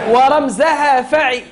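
shouted for the class to repeat; a loud model line for pupils. Shown as a demonstration. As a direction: call it out loud so they echo. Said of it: "أعيدوا".

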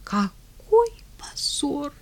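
slow, breathy tearful whisper. Acted. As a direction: whisper it through tears. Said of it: "Внезапно старуха заплакала". (слёзный шёпот)

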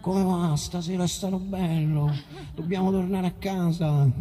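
imitating loyal old friends after a gig; lightly voiced regular fans. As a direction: lightly mimic friends saying their goodbyes. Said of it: "poi vengono ogni volta".

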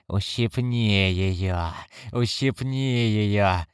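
slow, shrill imp squeal. Acted. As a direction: squeal it gleefully like a goblin. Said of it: "взвизгнул голос". (визгливый голос беса)

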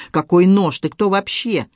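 "Какой нож" pushed out loud and rising in alarm; panicked loud protest. Acted. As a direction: shout it in sudden fright. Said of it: "он запаниковал".

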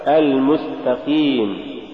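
المستقيم with a clean ee after the Q; lighter qaf. Shown as a demonstration. Tajweed teacher giving the example, lighter qaf. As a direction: keep qeem clear in المستقيم. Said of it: "والصواب".

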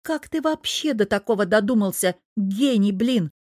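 a mild acted yell at her husband. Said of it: "орала девушка на весь парк". (лёгкий крик на мужа в парке)

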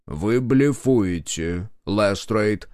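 slow, clenched accusation; the cornered minister accuses Lestrade, slow and clenched; teeth-gritted accusation. Acted. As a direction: say it slowly through clenched teeth.

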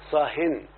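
"صاهن" with the final n of tanween sounded; tanween ending. Shown as a demonstration. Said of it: "يقبل التنوين".

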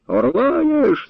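high, outraged shout thrown back; mocking yell. A narrator's reading. Captain mocks the old man's word, yelling it back. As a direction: hurl the word back at the old man, screaming. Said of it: "зарепетував сотник".

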